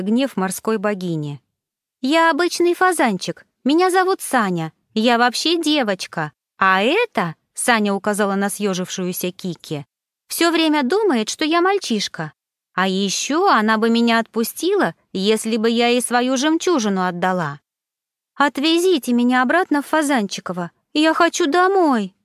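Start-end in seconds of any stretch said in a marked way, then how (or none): 2.0-7.3 shouting. Acted. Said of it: "Саня сорвалась на крик". 10.3-22.1 shouting. Acted. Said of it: "Саня сорвалась на крик".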